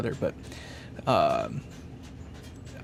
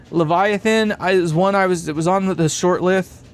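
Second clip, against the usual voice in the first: excited; 4 semitones higher than usual. Real, not acted. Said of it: "I'm getting excited".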